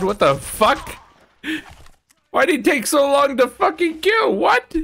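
high, loud outraged yelling; outraged shout. Real, not acted. Ally slow to kill, shout.

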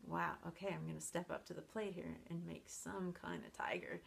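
a hint of God, hushed and casual; lightly voiced God accepting a challenge; mock God voice. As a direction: play God taking up a dare, half whispered. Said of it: "God has said".

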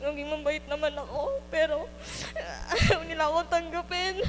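tearful, voice breaking; fighting back sobs as she speaks; crying. Real, not acted. Testimony breaking into tears.

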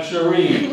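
CHERIE said as "shuh-REE", falling on REE; model pronunciation. Shown as a demonstration. Evaluator leading audience repetition, clear model pronunciation. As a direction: lead the room in saying Cherie, second syllable long. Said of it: "One more time".

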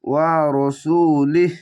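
ওয়া রসুলিহ slow, cut off at লিহ; slow ওয়া রসুলিহ ending in a stop; stop on sakin. Shown as a demonstration. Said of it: "লিহ বলে থেমে যাবেন".

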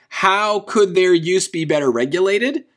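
"how could their use be better regulated" ending upward on "regulated"; rising, asking tune through "better regulated"; question tune. Shown as a demonstration. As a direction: read it as a question, lifting "regulated". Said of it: "That seems odd".

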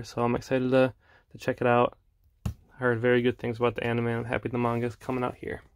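slightly winded, catching breath. Real, not acted. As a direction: talk while still a bit out of breath. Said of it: "after I catch my breath".

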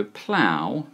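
plough drawn out, rhyming with cow; pronunciation demo. Shown as a demonstration. Teacher sums up for viewers, plough modelled slowly with OW. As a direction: stretch plough slowly on its OW sound. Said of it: "is pronounced".

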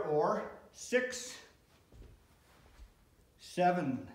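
counting reps mid push-up; strained counting through push-ups; doing push ups. Real, not acted. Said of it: "do a full set of ten".

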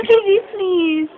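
slow plea through real giggles; laughing. Real, not acted. Asking a friend for the jacket, laughing. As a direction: beg while fighting off laughter.

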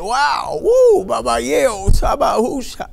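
high, loud ecstatic cries; rising whoops of rapture; overcome with joy. Real, not acted. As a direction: shout it out, carried away in worship. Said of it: "every time I say it".

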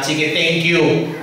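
slow, drawn-out sulky thank you. Retold or imitated. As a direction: thank God while still hurt. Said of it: "thank you na may halong tampo".

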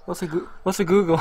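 playing dumb. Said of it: "I was trying to act dumb".

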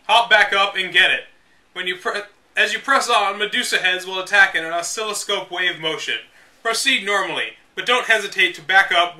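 measured, deliberate strategy-guide narration; guidebook read-aloud. Acted. Reading old game guide to viewers, deliberate. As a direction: read it like the official manual, step by step.

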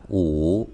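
"ủ" pronounced like Chinese wǔ; "ủ" read the Mandarin way; Mandarin five. Shown as a demonstration. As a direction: say "ủ" as Mandarin wǔ, dipping tone. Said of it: "Năm đọc là".

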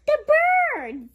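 breathless whispered exclaim; hushed thrill at the birds; excited whisper. Real, not acted. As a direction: whisper it in wonder. Excited at picture.

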